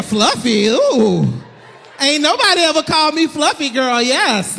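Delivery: loud, swooping mock delight; flattered woman. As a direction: act thrilled by the flattery.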